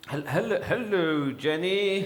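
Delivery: a hint of a silly toy voice; Womble voice. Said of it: "that's more like it".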